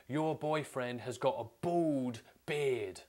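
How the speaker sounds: put-on slow, high slurred drunk voice; drunk coworker. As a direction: slur it like a drunk mocking. Drunk coworker quoted slurring insult.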